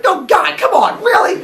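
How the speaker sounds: sick of the chore; exasperated groan. Acted. Cronus complaining loudly about yet another baby.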